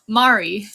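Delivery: "Murray" attempted as "MAH-ree"; careful pronunciation. Shown as a demonstration. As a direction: test "Murray" on its own with an open "ah". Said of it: "I can't pronounce this right".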